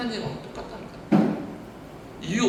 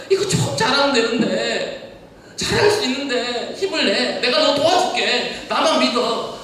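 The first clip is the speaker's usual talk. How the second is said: pleading encouragement; 4 semitones higher, 4 dB louder, slower than usual. Acted. Spirit pleading, slow, laughing.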